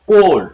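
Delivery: কোল্ড with a full round 'o'; 'o' sound demo. Shown as a demonstration. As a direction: stress the long 'o' in কোল্ড. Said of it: "ও উচ্চারণটা এখানে আসলো".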